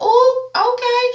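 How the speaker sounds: high, slow drawn-out ooh okay; very high slow mock gasp; shocked ooh. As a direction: stretch it out, scandalized. Reacting to insult on TV.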